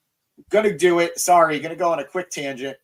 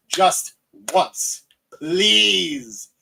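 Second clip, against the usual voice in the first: loud, high begging please; pleading; 5 semitones higher, 4 dB louder, much slower than usual. Real, not acted. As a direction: beg out loud for it. Begs for Danielson title win.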